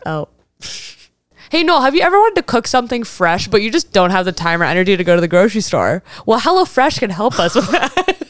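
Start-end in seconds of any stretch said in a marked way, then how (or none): 1.5-8.2 chirpy fake sponsor read. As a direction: pitch it like a cheesy ad. Mock HelloFresh ad.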